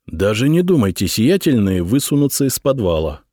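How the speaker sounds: plain reading voice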